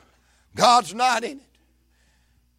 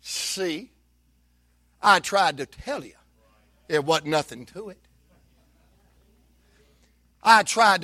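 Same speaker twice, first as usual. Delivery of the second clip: the devil taunting. Retold or imitated. The devil lightly mocks Martha and Mary. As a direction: taunt like a mild mocking tempter. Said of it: "Something like".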